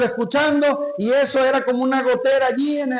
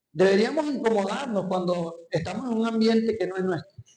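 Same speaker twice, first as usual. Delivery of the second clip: tearful; 4 dB quieter than usual. Real, not acted. Preacher moved, voice breaking.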